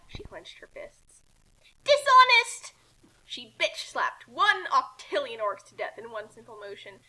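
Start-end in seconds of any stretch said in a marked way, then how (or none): 1.8-2.7 loud, high battle cry; shouted insult. Acted. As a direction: yell it as you strike. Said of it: "shouted insults in battle".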